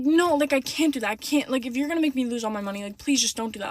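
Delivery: retold begging, starting insistent; pleading. Victim begging scammers not to take money, pleading. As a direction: plead as if re-enacting the panic. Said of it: "I'm begging these people".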